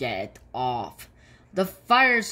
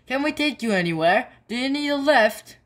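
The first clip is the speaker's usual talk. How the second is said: eager offer; 9 semitones higher, 4 dB louder, faster than usual. Acted. Drivers eagerly offering a lift.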